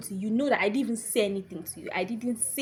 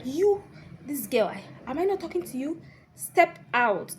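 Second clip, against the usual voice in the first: raised-voice telling-off of a student; acted stern order; 5 semitones higher than usual. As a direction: imitate a lecturer ordering someone out. Acting out lecturer ordering her out.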